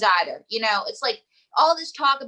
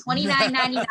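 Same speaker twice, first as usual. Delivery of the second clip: punchy price call; infomercial; 2 semitones higher, faster than usual. Shown as a demonstration. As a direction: repeat the price like a pitchman. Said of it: "I sound like an infomercial".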